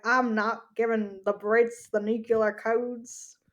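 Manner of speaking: put-on slow, drawled Southern American accent; gruff Southern American man refusing, slowly. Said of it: "my impression of an American man".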